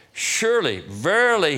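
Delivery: high, loud preacher's cry on surely; ringing proclamation. Acted. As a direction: proclaim it to the whole church. Preacher proclaiming Jesus' promise.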